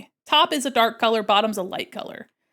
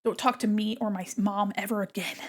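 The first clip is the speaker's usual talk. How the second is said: usual speaking voice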